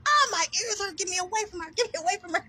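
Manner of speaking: high whiny mock of people who can't take it; mocking whiny complainers. Mocking the people who run from her, high and whiny. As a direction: pitch it up and whine like they're the victims. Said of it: "They be like".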